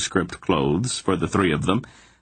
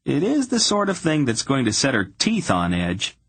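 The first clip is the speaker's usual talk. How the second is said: higher-pitched voice, climbing as the complaint builds; exasperated young hero; 4 semitones higher than usual. Acted. Garion complaining about the proud princess, exasperated. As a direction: grumble about her, pitch rising with exasperation.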